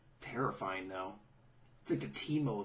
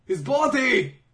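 louder, building to a high cry; hammed-up dramatic; 7 semitones higher, 12 dB louder than usual. Mocking a character's dramatic line, hammed-up and loud. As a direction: declaim it like a melodramatic sage. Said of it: "Bray's like".

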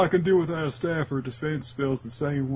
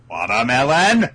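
John F. Kennedy; 7 dB louder than usual. Acted. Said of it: "it's John F. Kennedy again".

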